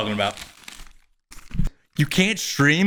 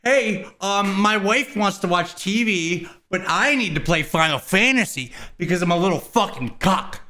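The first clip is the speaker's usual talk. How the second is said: mocking gamer; 3 semitones higher than usual. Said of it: "that's like".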